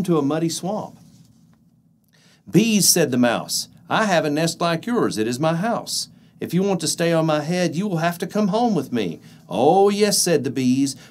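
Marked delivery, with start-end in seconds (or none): 2.5-9.2 mouse voice. Acted. Mouse tricks bees. 9.5-10.2 high, loud delighted bees; eager bees voice. Acted. Bees agree.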